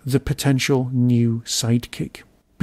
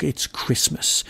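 grumpy mutter; 4 dB quieter, slower than usual. Real, not acted. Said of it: "Yes, I am a grump".

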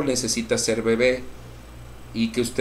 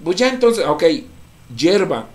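high, loud mock of a shrugging sinner; mocking careless voice; 9 semitones higher, 5 dB louder than usual. Pastor mocking those who shrug off salvation, high and loud. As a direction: sneer it out as if it's nothing. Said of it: "aquellos que consideran y dicen".

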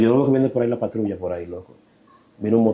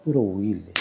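showing how he said it; slower than usual. Shown as a demonstration. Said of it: "Así, mira, mira cómo hizo".

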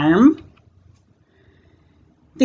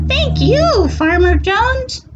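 cat voice. Acted. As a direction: thank him like a tiny kitten. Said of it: "says the cat".

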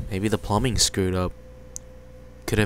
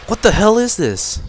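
sudden loud shocked outburst, higher; 9 semitones higher, 9 dB louder than usual. Acted. Teen shocked by muddy bathwater, loud and high. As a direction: recoil at the filthy water.

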